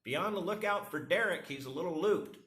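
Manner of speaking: neighbor's wife radios a warning, mock high voice; imitating wife. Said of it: "She's going".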